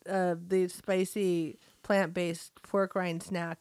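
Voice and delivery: slow words through a numb tongue; mock struggling to enunciate; numb mouth. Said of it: "what happened to your ability to enunciate".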